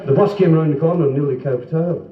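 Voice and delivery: put-on posh Scottish vowels; mock posh accent. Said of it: "people sort of speak very posh".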